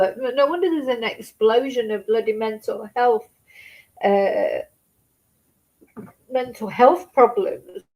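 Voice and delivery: fighting back tears while ranting; real crying. Real, not acted. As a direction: voice breaking into tears mid-sentence. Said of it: "that's not what I'm crying about".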